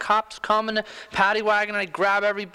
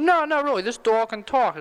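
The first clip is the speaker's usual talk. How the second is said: insistent dog owner; 5 semitones higher than usual. Acted. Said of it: "He said".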